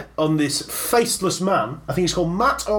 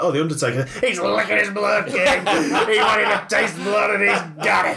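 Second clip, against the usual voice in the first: hammed-up wrestling announcer, building to a shout; WWE commentator; 3 semitones higher than usual. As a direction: call it like a ringside wrestling announcer. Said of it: "an audition tape for W W E commentary".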